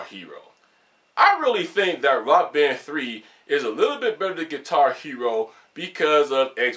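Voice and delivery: stilted scripted delivery, dropping low at phrase ends; mock script-reader voice; reading a script. Shown as a demonstration. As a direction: recite it like words read off a page. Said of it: "That's what it'd be like watching the script".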